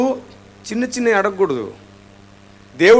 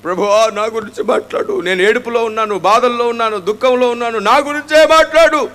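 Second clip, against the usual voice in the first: mock crying prayer. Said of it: "అని ఏడ్చుకుంటూ వస్తావా".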